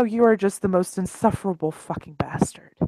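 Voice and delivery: hushed, breathy whisper of exasperation; exasperated whisper to a friend; whispered insult. Acted. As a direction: whisper it while shaking your head. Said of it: "Eli will shake his head and be like".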